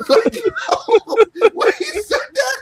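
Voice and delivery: high, loud, slow words through laughter; real cracked-up wheeze of speech; laughing. Real, not acted. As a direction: barely get it out for laughing. Helpless laughter while retelling.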